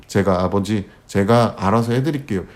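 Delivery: ordinary talk, nothing marked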